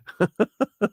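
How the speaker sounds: real high-pitched burst of laughter. Real, not acted. Laughing at absurd husband.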